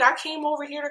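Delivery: high, put-on innocent voice; mock confused sweetness. Vlogger mimicking the star's excuse for coming over, fake sweet. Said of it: "like, confused and be like".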